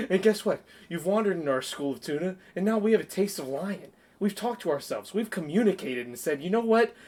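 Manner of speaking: comic mock-serious threat; Will Ferrell quote. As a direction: lay out the tuna's battle plan with mock menace. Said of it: "and then Will Ferrell goes".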